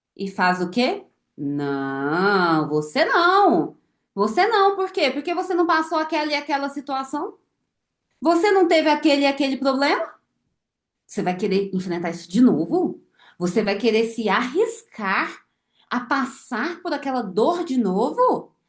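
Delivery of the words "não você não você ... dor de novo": little devil voice with a long "não". Acting out an inner voice that holds the listener back: little devil voice. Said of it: "Só que aí vem a voz do diabinho".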